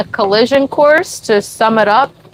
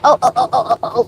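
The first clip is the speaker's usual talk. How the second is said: usual speaking voice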